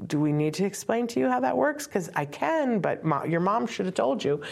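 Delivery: teasing a nosy stranger, mock-patronizing; mock-patronizing retort. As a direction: talk down to them like a know-it-all. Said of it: "and I was like".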